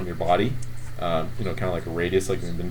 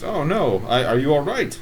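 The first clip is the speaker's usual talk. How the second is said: concerned NPC; 5 semitones higher than usual. Acted. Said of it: "he says".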